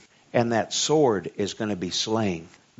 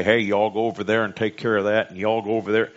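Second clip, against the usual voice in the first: joking Southern order-giver; Southern accent; faster than usual. Pretend. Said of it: "I don't know why it's Southern".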